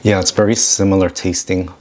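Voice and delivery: talking through a mouthful; words muffled by chewing; mouth full, chewing. Real, not acted. Seen 3: Tuna taste test; lips bunched, jaw working after bite during words.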